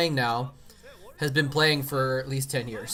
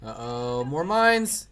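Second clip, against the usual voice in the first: excited; 3 semitones higher, 4 dB louder than usual. Real, not acted. Caster sees new mines.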